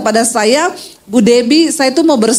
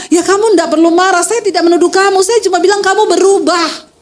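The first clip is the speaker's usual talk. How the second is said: higher, insistent acted protest; mock marital protest in a raised pitch; protesting wife; 5 semitones higher than usual. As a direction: play a wife objecting to her husband, pitched up.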